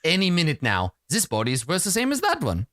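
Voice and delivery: lightly voiced snobbish doctor; haughty doctor. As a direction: talk down as if to a bad smell. Doctor sneers at the party.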